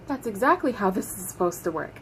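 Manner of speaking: soft, level, controlled reply; very calm. Retold or imitated. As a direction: answer quietly, holding the anger in. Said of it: "very calmly".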